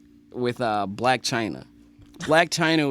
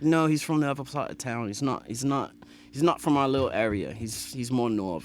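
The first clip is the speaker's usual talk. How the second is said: put-on British accent. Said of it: "like I'm on the podcast with Idris Elba".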